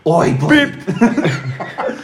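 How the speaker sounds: loud, high re-enacted shout; full-voiced yell. Homeowner re-enacting his shout from the driveway, full-voiced yell. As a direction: holler it out sharply. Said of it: "At the top of me".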